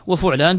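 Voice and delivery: وفعلان with a "u" after the ف: wa-fu'laan; damma on first letter. Shown as a demonstration. Teacher listing the three vowels, وفعلان said "wa-fu'laan". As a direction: give the ف of وفعلان a short "u". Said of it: "بضمها".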